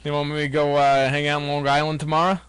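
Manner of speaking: put-on a light Long Island accent, on request. Host tries a Long Island accent for his co-host, lightly done. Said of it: "Let me hear your best New York, like, thick Long I".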